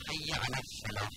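الفلاح said without its l before f; dropped lam. Retold or imitated. Teacher imitates those who drop the lam, الفلاح without l. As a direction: skip the l, running straight into f in الفلاح.

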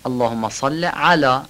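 علی with a throaty Arabic ع; علی said with a clear guttural ayn. Shown as a demonstration. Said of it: "عین علی درست گفته بشه".

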